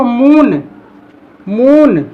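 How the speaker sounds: मून with a long drawn-out oo; long vowel. Shown as a demonstration. Teacher demonstrating the long oo sound. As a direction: draw out the oo in मून. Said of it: "उसको हम बोलते हैं long sound".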